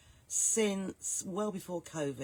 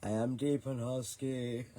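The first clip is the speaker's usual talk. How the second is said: A sultry singer; 5 semitones lower than usual. Acted. Host with a cold jokes to her viewers about her voice, deep and husky. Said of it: "I sound like a sultry singer".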